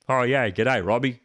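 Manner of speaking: a lightly put-on Aussie pundit voice; a bad, half-hearted ex-player greeting; Daniel McBreen impression. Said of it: "worst Daniel McBreen impression you'll ever hear".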